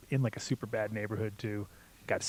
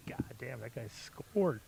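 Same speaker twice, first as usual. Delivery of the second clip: whispered, then slow; awed whisper; 6 dB quieter, slower than usual. Retold or imitated. Recalling watching the thief escape, awed whisper. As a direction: hush it in disbelief. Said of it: "I was just like".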